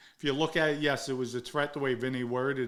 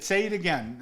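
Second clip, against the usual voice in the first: raised, forceful dare; retold angry challenge; 5 semitones higher, 4 dB louder than usual. Jumped up pointing in Vinny's face, challenging him angrily. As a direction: re-enact a confrontational demand, pitched up.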